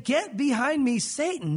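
stern rebuke. Acted. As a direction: rebuke him on the spot. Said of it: "he rebuked Peter".

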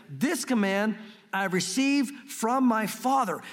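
slow, measured Bible reading; scripture reading. Acted. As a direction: read each phrase slowly and deliberately. Reading John 10:18.

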